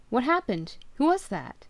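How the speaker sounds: jolted awake and shouting; alarmed shout. Acted. Husband yelling at his sobbing wife, alarmed.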